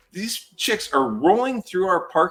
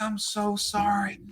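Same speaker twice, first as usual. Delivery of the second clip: higher-pitched put-on remorse; contrite apology; 8 semitones higher than usual. Girl suddenly apologizes after fight.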